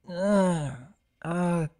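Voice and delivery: soft, sniffly stammer; sniffling. Acted. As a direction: fight back tears. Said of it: "Scootaloo sniffled".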